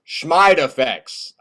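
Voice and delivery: slow, drawn-out scoff; dismissive mockery. Bob waves away Jimmy's side-effect worry, dismissive. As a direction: brush it off with a mocking rhyme.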